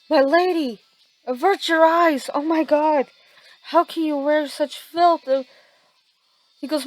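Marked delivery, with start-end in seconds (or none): 0.1-5.3 shocked samurai. Acted.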